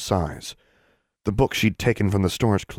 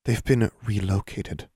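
witch voice; slower than usual. Acted. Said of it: "the witch repeated".

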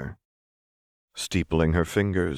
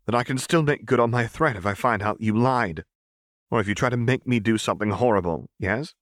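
tense, higher threat; tight threat; 5 semitones higher than usual. Acted. Seraphine tightly warns Renata she can still strike. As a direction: press the warning home. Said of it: "Seraphine echoed tightly".

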